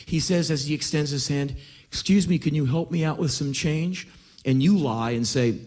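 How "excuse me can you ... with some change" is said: mild, courteous plea for change; sweetest, most polite voice. Acted. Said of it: "in the sweetest, most polite voice".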